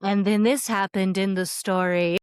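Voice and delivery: imitating a soothing storytelling podcast; soothing narrator. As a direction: play at being the soothing story reader. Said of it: "your podcast is so soothing".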